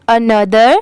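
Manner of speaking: another said uh-NUH-ther for the class to repeat; model pronunciation. Shown as a demonstration. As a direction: say another cleanly so students can echo it. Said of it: "आप भी मेरे बाद repeat करिए". (मेरे बाद दोहराने के लिए another साफ़ बोलें)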